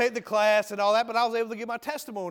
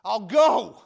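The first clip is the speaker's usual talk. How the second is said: tearful surrender; 9 dB louder, slower than usual. Retold or imitated. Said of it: "tears running down my eyes".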